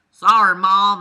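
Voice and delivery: loud call through the house; yelled. Retold or imitated. Son calling out an apology to mom, loud. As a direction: shout it out to the kitchen. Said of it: "I yelled".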